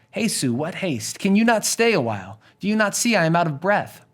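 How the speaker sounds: high-pitched, put-upon servant voice; stalling nurse. Acted. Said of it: "having fun with her young charge".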